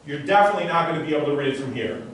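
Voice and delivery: fast, insistent suggestion; intense mind reader. Shown as a demonstration. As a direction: drive the suggestion in quickly. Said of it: "what I'm saying to her".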